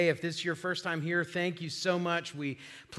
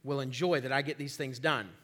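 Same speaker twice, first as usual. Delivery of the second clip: quick, low grumble to himself; soft, hurried inner rant; said in his head; 4 semitones lower, 7 dB quieter than usual. Retold or imitated. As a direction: rattle it off under your breath. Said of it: "I said that in my head".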